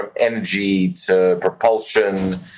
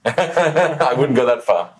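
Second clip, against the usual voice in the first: laughing; 4 semitones higher, slower than usual. Real, not acted. Laughs off compliment.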